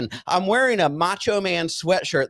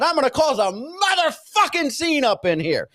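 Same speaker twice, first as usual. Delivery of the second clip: retold yell; 10 semitones higher than usual. Patient threatening staff with a scene, mock yelling. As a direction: re-enact a threatening yell up high. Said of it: "And that's how I yelled it".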